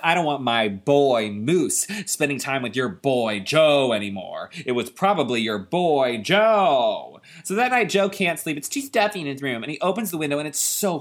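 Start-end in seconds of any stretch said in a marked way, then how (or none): 0.0-7.2 slow, hammed-up accusing neighbor; indignant neighbor. McCall blames Joe's dad, slow mock indignation. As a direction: lean on each "boy", drawn out. Mister McCall in yelling fight.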